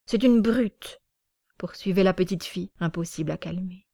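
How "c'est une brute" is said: put-on high little girl's indignant outburst; cross child. Small girl refusing to calm, high and indignant. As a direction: sulk like an offended small girl. Upset girl insulting Grisha.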